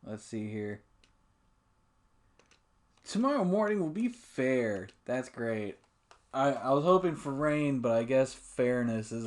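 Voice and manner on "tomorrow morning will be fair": lightly voiced forecaster; mock weather report. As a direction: read it like a TV weatherman. Reading weather report aloud.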